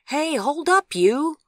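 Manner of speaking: loud, high policeman's shout; calling out. A narrator's reading. Policeman calls after a fleeing boy, loud and commanding. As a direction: yell to halt someone running off. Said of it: "called one of the policemen".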